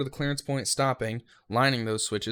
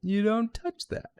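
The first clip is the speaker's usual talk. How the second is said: slow, loud, higher scolding; stern retold warning; 8 semitones higher, 11 dB louder than usual. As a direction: lay down the rule to the trainee, firmly and slowly. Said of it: "He's like".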